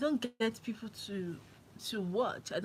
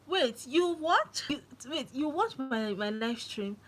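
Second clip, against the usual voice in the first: shocked disbelief; 5 semitones higher than usual. Retold or imitated. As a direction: gasp it out in amazed disbelief. Shocked that people watch her.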